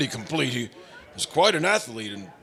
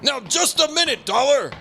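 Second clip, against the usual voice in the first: raised, higher urgent call; calling after him; 8 semitones higher than usual. Acted. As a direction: stop him before he leaves the room. Calls after departing Johnny.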